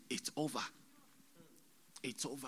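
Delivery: subdued, quiet pronouncement; retold voice from the vision. Same words retold more softly.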